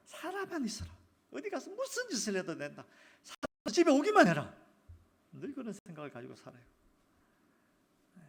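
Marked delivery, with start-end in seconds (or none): 0.1-4.5 high, loud, eager urging; fervent parental wish. Retold or imitated. Parent longing for child to just come home, loud and high. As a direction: beg them home with fervour.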